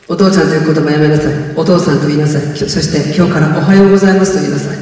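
a hint of a stern father; stern father's voice. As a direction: lay down the law like a strict dad. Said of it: "いつもよりも低い声でした".

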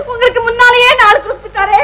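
tearful, voice breaking into sobs; wife weeping over her husband's fate, crying. Acted. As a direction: choke the words out through tears. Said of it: "ஏமா, ஏமா நீ அழுகுற?".

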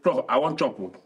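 Nigerian-voiced British English version. Shown as a demonstration. Showing how he'd tell Prof properly, British English. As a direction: put it in formal British English. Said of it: "the British English I might say".

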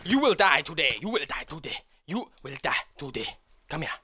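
high, loud grunting brute; caveman voice. Acted. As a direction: play a dumb brute out for blood. Gamer hunting player, caveman threats.

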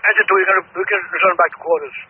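firefighter over the radio; clipped radio call from a truck; urgent firefighter radio. Real, not acted. Units on radio.

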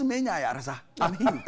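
excited woman announcing her healing, voice rising; beaming, near laughing, I'm healed; a woman overjoyed at being healed; joyful cry. Retold or imitated. Woman exclaiming she is healed.

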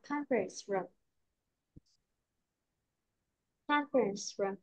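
Conference with its final s sounded before room; added S sound. Shown as a demonstration. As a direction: softly model the s ending of Conference. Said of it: "Thêm S nào".

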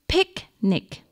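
picnic split by a gap, high start; syllable demonstration. Shown as a demonstration. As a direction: say picnic as pic, nic. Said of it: "how many syllables in picnic".

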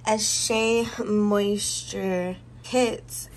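slow, careful "A Shea Moisture kit" while recovering breath. Real, not acted. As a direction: stretch out "Shea Moisture kit" slowly after getting winded. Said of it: "I'm out of breath".

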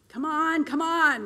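loud, impatient push. Acted. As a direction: hurry him up, annoyed. Impatient Mark demands mallet.

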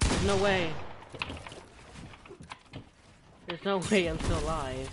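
breathless shock after a close call; adrenaline rush. Real, not acted. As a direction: shout it out, heart pounding. Survived a close game fight.

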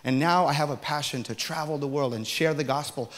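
man answering the clerk, sincere and quiet; humble sincere confession. Retold or imitated. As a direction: confess quietly, then share the faith. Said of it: "It was like a preaching session".

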